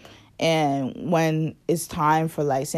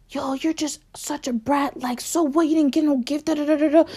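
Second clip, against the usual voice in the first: higher, sneering scold; higher mock voice of a scolding cousin; 10 semitones higher than usual. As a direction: mimic the cousin's nagging in a high voice. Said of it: "he just kept pushing my buttons".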